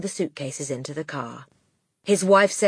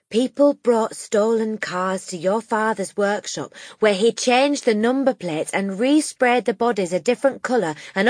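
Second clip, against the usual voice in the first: grave teacher; 5 semitones higher, 5 dB louder than usual. Acted. Miss Honey explains.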